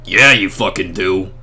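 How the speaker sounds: a deep mock reindeer voice; Blitzen voice. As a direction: growl it low as Blitzen the reindeer. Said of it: "This is my Blitzen voice now".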